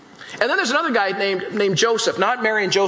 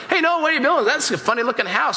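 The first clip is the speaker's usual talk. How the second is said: higher, laughing jeer at Noah; mocking neighbors; 4 semitones higher, faster than usual. Neighbors laugh at Noah over his odd-looking boat, mocking. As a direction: tease him like a scoffing neighbor. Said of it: "your neighbors are coming by going".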